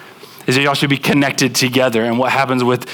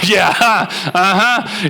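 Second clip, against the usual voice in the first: mock knowing agreement; 6 semitones higher, much slower than usual.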